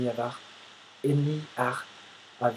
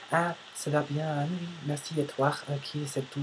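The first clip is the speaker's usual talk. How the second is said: higher-pitched imitation of polite chitchat; mock small talk; 3 semitones higher than usual. Imitating superficial American chats he dislikes, mock-polite small talk. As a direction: put on a superficial how-are-you politeness.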